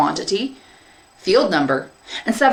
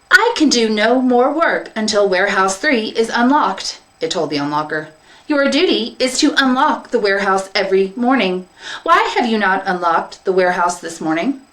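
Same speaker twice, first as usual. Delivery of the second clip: higher, louder insistent machine; field minder robot; 3 semitones higher, 3 dB louder than usual. Acted. Field minder confronting the unlocker, insistent. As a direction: demand it with cold logic.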